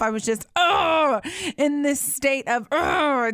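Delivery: choked-up groan of frustration; tearful, exasperated sigh; overwhelmed, near tears. Real, not acted. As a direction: let the ugh catch in the throat. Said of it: "I'm just mad".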